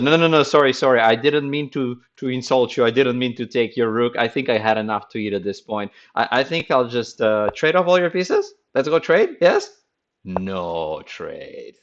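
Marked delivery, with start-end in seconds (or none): 0.0-9.8 mock apologetic opponent. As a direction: play the sorry opponent who wants to trade. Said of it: "Samuel said".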